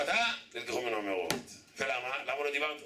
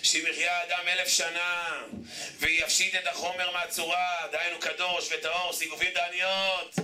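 solemn preaching; 3 semitones higher, slower than usual. Acted. Slow solemn quoting of a sage.

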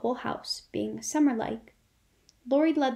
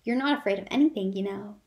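fast, louder teasing with "not" falling; wicked teasing; 4 dB louder, faster than usual. Acted. Laurie teases Jo with her boast, mischievous and quick. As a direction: needle her with her own words. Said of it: "looking wicked".

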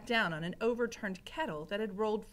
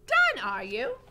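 high, loud questioning voice; Mig; 14 semitones higher, 9 dB louder than usual. A narrator's reading. Mig to Gregory handing back tray, high loud voice. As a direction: ask it loudly, pitched up.

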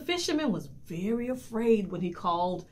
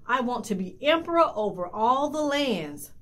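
loud, commanding wife giving orders; ordering; 5 semitones higher, 5 dB louder than usual. A narrator's reading. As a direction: bark the order at the husband. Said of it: "the wife ordered".

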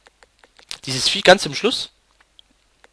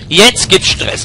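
"Jetzt" punched, louder and higher; fired up, shouting the threat; louder battle cry; 3 semitones higher, 5 dB louder, much slower than usual. Real, not acted. Gamer taunts the rats, louder battle cry. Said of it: "Alter, jetzt gibt's Stress".

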